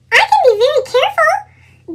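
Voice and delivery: put-on high small-child voice; a little girl begging to join; little sister pleading. A narrator's reading.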